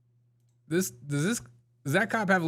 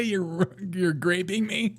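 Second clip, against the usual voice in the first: mock mishearing; 4 semitones higher, slower than usual. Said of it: "What did he say?".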